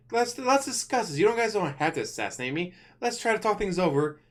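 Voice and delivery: high, pleading voice of the king; mock pleading king. King begging the elves not to kill him, high and pleading.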